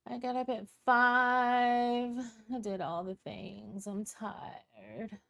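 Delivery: slow, sighing complaint that fades away; mock tired whine. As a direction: imitate her weary martyr act. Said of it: "how tired she is in that voice".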